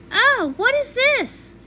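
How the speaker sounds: high, slow surprised question; a startled gasp of a question. Acted. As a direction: take it in with dismay. Milky Way sees the mud.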